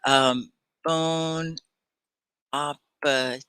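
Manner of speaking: "bon appetit" softly, nasal French bon, ah-peh-TEE; French phrase. Shown as a demonstration. Teacher modelling "bon appetit" for English learners. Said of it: "what does it mean if they say".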